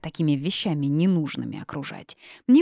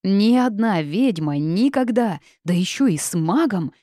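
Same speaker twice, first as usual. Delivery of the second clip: outcry; 4 semitones higher, 5 dB louder than usual. Acted. Continued outcry.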